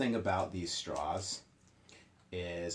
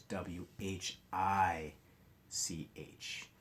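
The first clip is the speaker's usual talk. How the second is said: spelling aloud slowly; much slower than usual. Shown as a demonstration. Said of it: "our vocabulary word this week".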